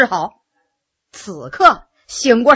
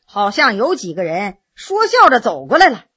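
ordinary delivery

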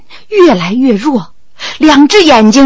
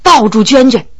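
usual speaking voice

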